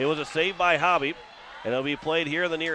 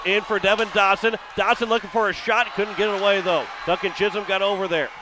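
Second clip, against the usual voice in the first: rising, louder play-by-play as the shot builds; excited call; 4 semitones higher, 4 dB louder than usual. Real, not acted. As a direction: call the scoring chance with growing energy. Excited hockey play-by-play rush.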